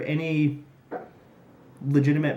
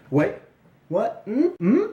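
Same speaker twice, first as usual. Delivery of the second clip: mock surprise; 8 semitones higher, 3 dB louder than usual. Pretends to hear something.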